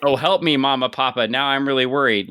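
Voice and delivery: mock fear. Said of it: "and Lobo says".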